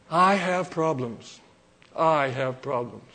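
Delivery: burdened confession. Acted. Prophet tells God his troubles, burdened and slow. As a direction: lay the trouble down slowly.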